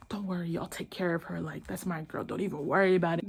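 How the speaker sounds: smooth it over quietly, imitating him; playing it off. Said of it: "play it off like she is the problem".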